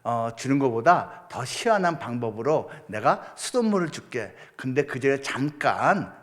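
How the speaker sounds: lightly voiced calm deity; God's voice. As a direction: speak as a patient God to his child. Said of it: "라고 설명해 주시고".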